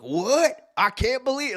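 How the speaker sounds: high-pitched mock incredulity; imitating disbelief. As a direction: act out a stunned fan. Retold fan's outraged reaction.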